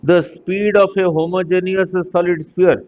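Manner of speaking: slowly read-out exam question; slow dictation. Real, not acted. Teacher starting the next exam question for students, slow dictation. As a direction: dictate at an unhurried pace. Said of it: "धीरे धीरे बोल रहा हूँ".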